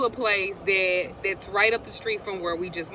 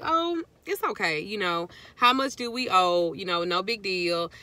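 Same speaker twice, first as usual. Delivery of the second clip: brushing it off. Retold or imitated. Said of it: "I'm trying not to, make a".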